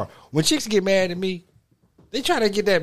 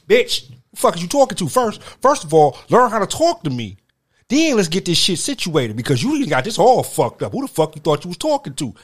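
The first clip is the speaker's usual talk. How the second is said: mock furious rant; 3 dB louder than usual. Acted furious rant at friend.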